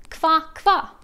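playful frog call; frog croak. Shown as a demonstration. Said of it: "the sound of a frog".

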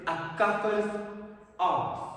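"gaffer's" höher und lauter betont; stress on gaffer's. Shown as a demonstration. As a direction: lean into "gaffer's". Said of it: "put emphasis on kafir".

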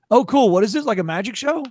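loud, high mock enthusiasm; eager put-on interest, opening big; friendly curiosity. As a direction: imitate an impressed passer-by. Imitating curious, friendly train station cops.

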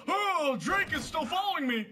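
high-pitched mock panic; hammed-up alarm; mock alarmed henchman. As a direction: voice the startled pursued man, pitch up. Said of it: "every time he turns around, he's like".

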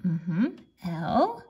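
"Bl-," stretched out on a long l; really slowly. Shown as a demonstration. Teacher sounding out blue, saying it really slowly. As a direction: draw out "Bl-," and hold the l. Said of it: "say the word really slowly".

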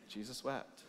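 breathy soft whisper with a chuckle; quiet reverent murmur; hushed verse. Real, not acted. Awed short verse hushed.

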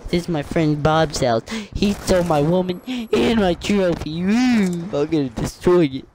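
lightly acted angry rival gamer; mock trophy shooter. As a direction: ham up a wronged man's vow of revenge. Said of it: "He's like".

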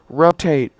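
pilot callout. Acted. Pilot callout during takeoff.

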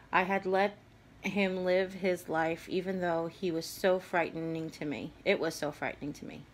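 reading through held-back tears; teary. Real, not acted. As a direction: voice welling with tears. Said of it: "I'm starting to get teary".

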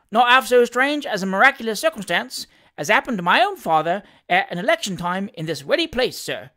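lively dialect servant reporting with relish; Sam Weller, cheeky manservant. Acted. Valet telling his master of the election, animated Cockney.

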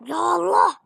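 short shouted cry, falling at the end; a second shouted take, shorter. Pretend. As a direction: call it out once, clipped. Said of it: "diye yazdım".

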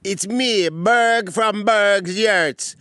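like a cheesy TV ad guy; local ad pitchman. Acted. Character pitching yurt business.

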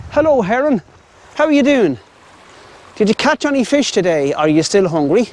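playful high-pitched animal chat; talking to a bird. Pretend. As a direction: call over to a bird as if it were a pal. Chatting to a heron.

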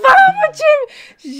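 long, slow, loud battle cry; rallying shout. Retold or imitated. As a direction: pump up the team under the cold shower. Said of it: "Eu falo". (grito de guerra lento e alto)

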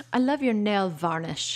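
slow, imitated proper British; British accent. Retelling the agent's compliment to one of the girls, imitated British accent. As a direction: quote her slowly in a proper British accent. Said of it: "She had this British accent".

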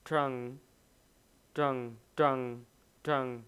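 teacher showing the d-like sound in trunk. Shown as a demonstration. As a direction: say trunk starting near a d. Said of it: "là âm đ".

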